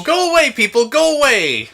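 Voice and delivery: loud, high call to shoo people off; mock shooing call. Host shooing people from the open door, mock shout. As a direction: holler at the crowd to clear out. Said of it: "open the door and go".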